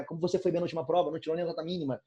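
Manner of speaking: teacher showing irony with a sarcastic compliment; ironic. Shown as a demonstration. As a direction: rush the fake praise, then let it sink. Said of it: "eu tô sendo irônico".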